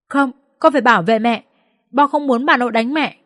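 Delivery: hint of a child's voice; little boy. A narrator's reading. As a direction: protest like a protective small son. Child protecting mother in story.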